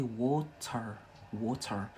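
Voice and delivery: Scottish accent, "water" somewhere between the American and the English. Shown as a demonstration. Teacher showing viewers her Scottish accent "water". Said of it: "here in Scotland, we say".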